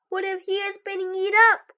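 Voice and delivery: frightened cry. Acted. Toad imagining Frog eaten, crying out in fright. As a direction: blurt out the worst fear in a rush. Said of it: "cried Toad".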